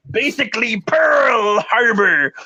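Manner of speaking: hammed-up dim caveman voice, broken English; different voice. Reading a commenter's post to stream viewers, mock caveman voice. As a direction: read the comment as a grunting, clueless troll. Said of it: "I need to do this in a different voice".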